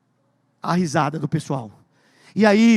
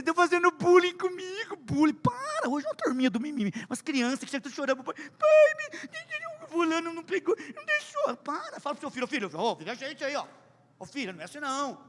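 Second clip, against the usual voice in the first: high mock whining schoolkids, much softer; whiny kids; 9 semitones higher, 8 dB quieter than usual. Pastor mocking today's whiny schoolkids, high and whining. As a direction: whine like a crying child.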